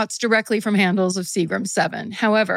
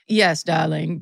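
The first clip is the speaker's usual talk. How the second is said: lower, half-hearted British impression of a musician; bad British accent; 4 semitones lower, slower than usual. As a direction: attempt a British drawl, not quite landing. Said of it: "I'm not doing a British accent correctly at all".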